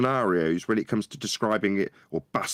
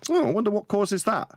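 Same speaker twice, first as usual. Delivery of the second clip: wondering aloud; 13 semitones higher than usual. Retold or imitated. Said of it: "and go".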